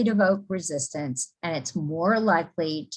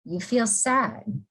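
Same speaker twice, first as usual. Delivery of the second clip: slow, falling statement on sad; 4 semitones higher, slower than usual. Shown as a demonstration. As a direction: say it slowly as a statement, voice going down. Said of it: "if they say something to you and you say".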